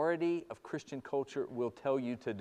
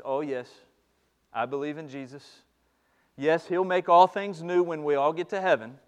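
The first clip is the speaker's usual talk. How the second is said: half-hearted faith; 7 dB louder than usual. Retold or imitated. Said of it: "we are tempted to respond".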